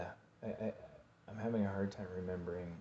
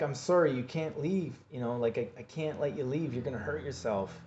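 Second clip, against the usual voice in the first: higher, louder, anxious begging; urgent pleading; 7 semitones higher, 7 dB louder than usual. Retold or imitated. Holding girlfriend back, pleading higher and louder. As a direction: beg her to stay, voice strained high. Restraining her in the hallway.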